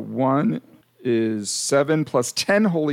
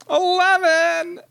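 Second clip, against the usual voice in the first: excited; 3 dB louder, much slower than usual. Real, not acted. Excited echo of the roll.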